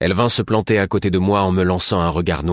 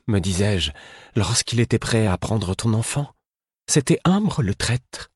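higher, pained voice for the Fool; a higher voice for the guilt-ridden Fool; the Fool, anguished; 5 semitones higher than usual. A narrator's reading. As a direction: let the Fool's grief rise high in the voice.

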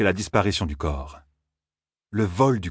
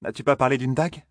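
Selene's voice; 7 semitones higher than usual. A narrator's reading. Selene voiced in read story.

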